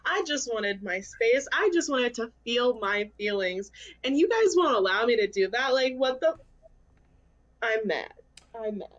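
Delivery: mock rant. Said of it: "go into a whole rant as to why I'm angry".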